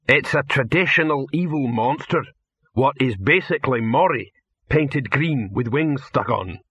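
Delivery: lightly voiced troll, explaining; friendly troll. Troll explains the monster to the actor, lightly voiced and friendly.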